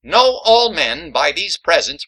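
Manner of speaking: slow, grand herald reading of "Know"; formal proclamation. Acted. Rufus reads Washington's letter aloud like a herald. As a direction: proclaim it like a royal decree. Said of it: "reads letter".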